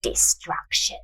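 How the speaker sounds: breathy murmur, barely voiced. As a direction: murmur the doom. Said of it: "she murmured".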